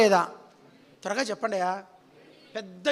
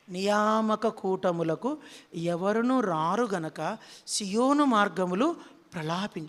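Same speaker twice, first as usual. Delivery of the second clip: slow and hushed, drawn out like a lament; mournful lament; 3 semitones lower, slower than usual. Acted. Preacher mourning empty prayer meetings, slow mournful lament. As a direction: grieve over each word slowly. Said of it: "ఎవరు ఏడ్చేది?".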